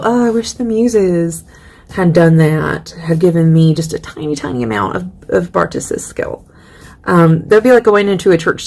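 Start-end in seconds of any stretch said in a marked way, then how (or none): 0.0-6.5 wistful. Acted. Poet longing for the muses' gift, wistful. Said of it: "She's just kind of this wistful".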